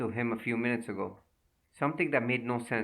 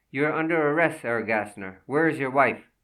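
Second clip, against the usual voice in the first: loud, firm arrest order; stern command; 2 semitones higher, 6 dB louder than usual. Acted. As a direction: bark the arrest. Detective major arrests suspect.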